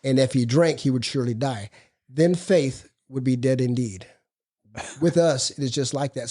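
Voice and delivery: measured, deliberate reading from the book; reading aloud. Acted. Speaker reads the Big Book passage to the group, measured.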